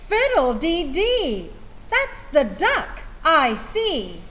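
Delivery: a farm lady crying out at the muddy duck; cried out. Acted. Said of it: "cried Missus Wishy-Washy".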